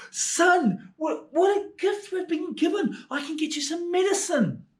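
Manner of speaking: high, tearful cry of grateful relief; a poor mother weeping with joy over the ruby; overjoyed mother. Acted. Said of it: "She was like".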